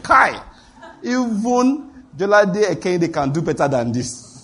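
mock the bad acting, drawn out; scoffing exclamation. Scoffing at staged miracle.

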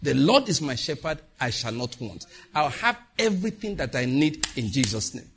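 slow, calm confession; faith declaration. Shown as a demonstration. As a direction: declare it steadily.

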